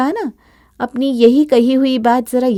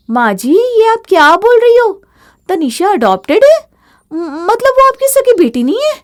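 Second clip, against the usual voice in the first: much higher, louder feigned alarm; mock shock; 10 semitones higher, 7 dB louder than usual. Bahu confronts mother-in-law with hammed-up shock. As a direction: pretend to be stunned.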